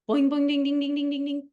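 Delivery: playful imitated bells; alarm bell noises. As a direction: ring the alarm bells in your head.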